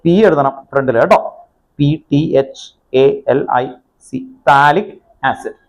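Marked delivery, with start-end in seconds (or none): 1.8-4.2 letter by letter, in short groups; spelling out. Shown as a demonstration. Teacher spells word for writing. 4.5-5.6 "thallic" with no P sound at the front; silent P. Shown as a demonstration. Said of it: "പിക്ക് pronunciation ഇല്ല".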